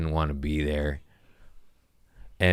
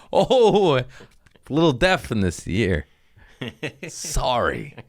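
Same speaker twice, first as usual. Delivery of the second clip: mock innocent excuse; 7 semitones higher, 4 dB louder than usual. Feigning deafness to the agent.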